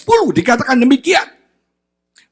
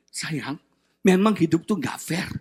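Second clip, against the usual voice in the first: gentle consoling; 5 semitones lower, 4 dB quieter than usual. Retold or imitated. Uncle consoling nephew, quoted.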